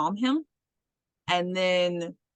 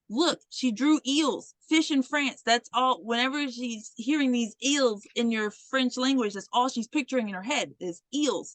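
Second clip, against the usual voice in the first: higher-pitched earnest defense; insistent explaining; 5 semitones higher than usual. Retold or imitated. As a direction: imitate a teacher pleading a student's case. Teacher defends girl to colleagues.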